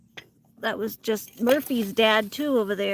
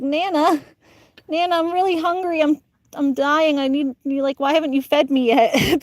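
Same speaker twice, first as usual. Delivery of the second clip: put-on higher, whiny little-kid plea, hungry; mock whiny child; 5 semitones higher, 5 dB louder than usual. Hungry child whining to Nana, higher and mock pleading. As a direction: whine like a starving seven-year-old, hammed up. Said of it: "was crying to my Nana".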